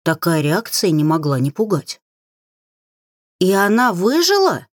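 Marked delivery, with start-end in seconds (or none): 3.4-4.7 curious. A narrator's reading. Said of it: "Не скрывая научного интереса".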